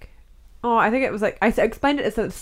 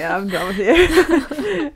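imitating a mum; 6 semitones higher, 4 dB louder, much slower than usual. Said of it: "someone's mum's like".

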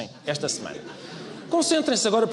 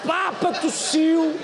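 mock dramatic headline, slower; 7 semitones higher, much slower than usual. Repeats headline slower, higher.

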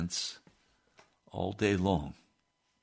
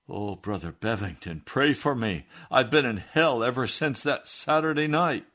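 pleading; 3 semitones higher, 4 dB louder than usual. Retold or imitated. Jim hugging the preacher, begging him to pray, rising plea. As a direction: beg for help, rising in urgency.

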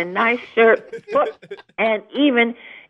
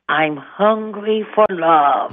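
slow, drawn-out mock seduction; playful, suggestive drawl; sultry message; 3 semitones lower, slower than usual. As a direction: deliver a lingering come-on. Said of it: "What should that message be?".

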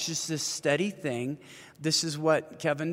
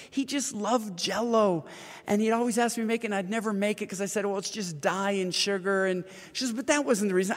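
lightly voiced widow, higher and rushing; widow's voice; 5 semitones higher than usual. Widow explains the Jell-O to Paul, higher, rushed voice. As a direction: tell it as a grieving widow pouring out regret.

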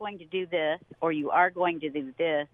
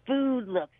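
drawn-out teenage complaint, retold; mock disgusted teen; 3 semitones higher, slower than usual. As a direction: imitate a son rudely slamming the food. Retelling teenage son's rude complaint.

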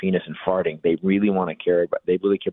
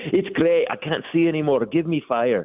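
put-on drunk reveller; 7 semitones higher than usual. Mimicking drunk reveller with torch.

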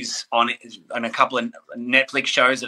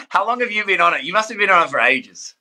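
surprised gasp; 5 semitones higher, faster than usual. Real, not acted. Gasps at follower count.

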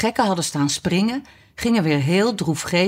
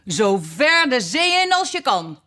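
higher, eager dance-caller voice; excited call; 6 semitones higher than usual. A narrator's reading. Excited creatures calling out dance steps.

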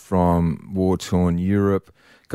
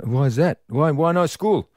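put-on kid asking; 6 semitones higher than usual. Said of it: "And he goes".

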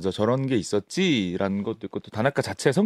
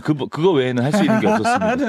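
laughing; 3 semitones higher, 3 dB louder, faster than usual. Real, not acted. Laughing admission of forced stunts.

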